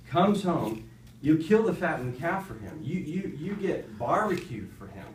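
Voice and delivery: a son venting his grievance at his father, half-acted; angry complaint. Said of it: "The older brother became angry".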